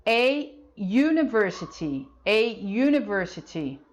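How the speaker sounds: "A university" said slowly, university starting with a y sound; slow model pronunciation. Shown as a demonstration. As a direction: stretch it out, university begins like "you". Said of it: "University é o som de U, como se fosse um Y". ("A university" devagar, com som de Y no início)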